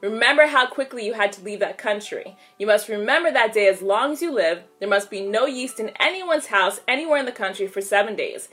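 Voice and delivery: measured Bible reading aloud; steady, instructive read-aloud of scripture. Real, not acted. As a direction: read the verses evenly, leaning on key words. Reads scripture aloud to viewers.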